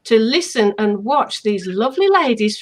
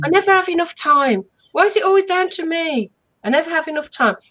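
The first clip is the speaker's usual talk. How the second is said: mock put-upon moan, a little higher; complaining self-talk; 4 semitones higher, faster than usual. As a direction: grumble about never having time. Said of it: "So when you hear yourself say".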